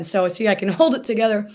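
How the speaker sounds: laughing through tears. Real, not acted. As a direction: laugh it off while fighting tears.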